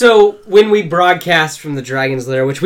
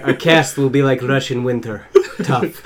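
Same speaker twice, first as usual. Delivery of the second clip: put-on Russian accent; 3 semitones lower than usual. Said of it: "bad Russian accents".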